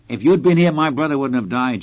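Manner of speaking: retold plea.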